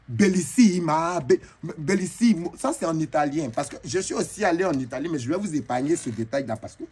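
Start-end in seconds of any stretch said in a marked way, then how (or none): 0.1-2.5 mock Italian praise. Crowd's praise, drawn out.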